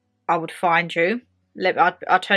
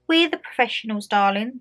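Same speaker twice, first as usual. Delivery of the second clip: condescending; 2 semitones higher than usual. Retold or imitated. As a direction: talk down to her sweetly. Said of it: "one of them used to say to me".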